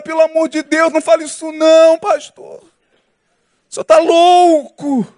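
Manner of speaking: high-pitched mock pleading; imagined protest. Congregant standing up to stop the pastor, acted exasperated protest. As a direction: act out an appalled objection, stretching the last words.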